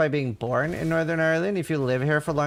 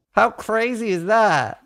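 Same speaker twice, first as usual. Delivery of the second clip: amazed; 6 semitones higher, 5 dB louder, slower than usual. Real, not acted. Amazed at the coincidence.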